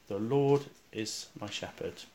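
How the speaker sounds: slow, softened meditative recitation; quiet and slow. Shown as a demonstration. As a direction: say it slowly and quietly, as if to yourself. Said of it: "just quietly and slowly".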